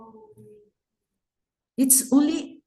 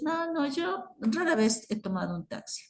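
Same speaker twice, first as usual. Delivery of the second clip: quick, high, soft throwaway Spanish; unemphatic; 6 semitones higher, 6 dB quieter, faster than usual. Shown as a demonstration. Teacher shows not wanting to be emphatic, casual and quick. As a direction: toss it off lightly and fast. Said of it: "If I don't want to be emphatic".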